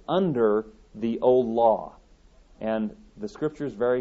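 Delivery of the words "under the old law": "under" drawn out slowly and leaned on; slow right down and press on "under"; stress on UNDER. Real, not acted. Preacher repeating his key word, stress on "under". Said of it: "I emphasize the word under".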